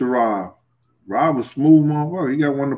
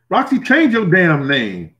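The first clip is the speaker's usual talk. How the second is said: slow, louder teasing put-down; mock scolding; 6 semitones higher, 4 dB louder, slower than usual. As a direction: drag the words out to tease. Mocking a viewer's name.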